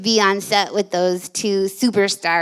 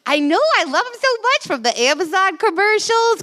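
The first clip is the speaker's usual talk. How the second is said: mom impression; 9 semitones higher than usual. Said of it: "she's like".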